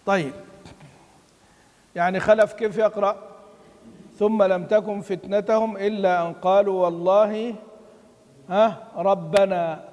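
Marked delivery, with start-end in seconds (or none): 4.2-9.8 slow, measured chant of the verse; Quran recitation. Shown as a demonstration. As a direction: recite it slowly, drawing out the words. (تلاوة متأنية مرتلة)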